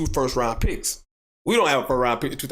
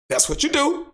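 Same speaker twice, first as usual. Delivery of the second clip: ordinary talk, nothing marked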